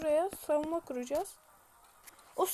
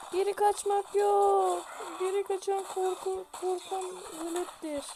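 quoting a proverb. Pretend. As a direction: intone it like old wisdom. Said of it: "Bir Alperen atasözü öyle diyor". (ağır, ciddi atasözü söyleyişi)

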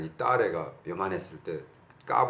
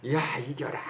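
drawn-out mock fan cheer, slightly higher; imitated cheer; 4 semitones higher, slower than usual. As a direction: cheer on the home team without full volume. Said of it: "소리 지르잖아요".

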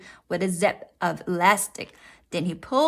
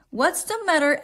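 higher, lightly voiced mother; raised questioning pitch; mother asking; 8 semitones higher, faster than usual. A narrator's reading. Mother noticing Froggy's trouble, higher questioning voice. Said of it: "asked the mother".

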